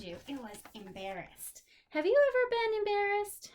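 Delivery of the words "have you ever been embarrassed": dramatic question. Acted. Asking kids dramatically.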